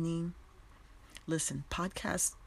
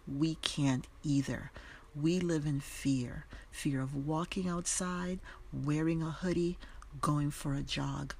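solemn poem reading. Shown as a demonstration. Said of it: "this is how it reads".

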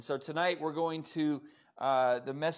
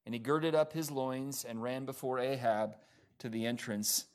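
measured reading, settling lower toward the close; scripture reading; 4 semitones lower than usual. Acted. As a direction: bring the Bible passage to a close.

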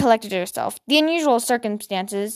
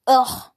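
disgusted ugh; 3 semitones higher, 3 dB louder than usual. Acted. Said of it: "said Ada definitively".

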